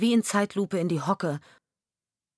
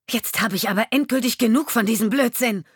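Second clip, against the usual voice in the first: loud, higher shout of fury; furious shout, higher and louder; shouting at him; 5 semitones higher, 6 dB louder than usual. Acted. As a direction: yell at the husband who pretends not to know her. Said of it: "schrie sie den Mann an".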